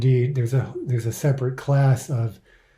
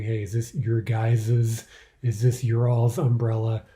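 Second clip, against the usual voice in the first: casual group question; 2 semitones lower than usual. Shown as a demonstration. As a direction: lightly play someone asking a group, offhand. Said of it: "in your regional variation of spoken English".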